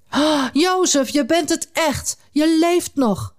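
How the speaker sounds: high, slow, tearful cry of joy; in tears. Acted. Old father finding his lost son, tearful and slow. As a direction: marvel through happy tears. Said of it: "riep Jacob in tranen".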